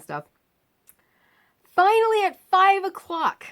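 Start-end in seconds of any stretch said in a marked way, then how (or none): 1.6-3.4 finally, at last; exasperated emphasis. Real, not acted. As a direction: narrator stressing how long the wait was. Relieved climax of waiting.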